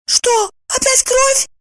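high, slow, frightened exclamation; shuddering exclaim. A narrator's reading. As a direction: gasp it out with dread. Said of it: "содрогаясь, воскликнула Евдокия". (содрогаясь, высоко воскликнуть)

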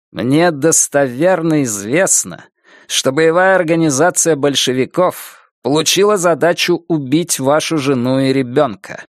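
each word hammered out firmly; firm, measured. Acted. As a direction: spell it out word by word, unyielding. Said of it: "чеканя каждое слово, твёрдо произнёс".

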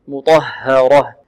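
slow "مطهرة" with a dark, heavy ta. Shown as a demonstration. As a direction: draw out "مطهرة", ha clear, ta full. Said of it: "والطاء هذه من حروف الاستعلاء".

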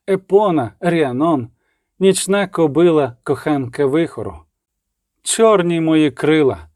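slow, stately liturgical declaration; solemn incantation. A narrator's reading. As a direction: proclaim each title as a revelation. Domina chants the goddess litany.

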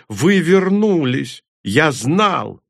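выше и громче, нараспев; ликовать, пританцовывая; восторженный возглас. A narrator's reading. Корневик пританцовывает от радости. (корневик в восторге от встречи)

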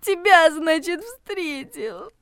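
high, tearful retelling ending in a choke; sobbing. A narrator's reading. Regina repeats Steve's parting words, sobbing. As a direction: break down on the last word. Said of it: "она всхлипнула".

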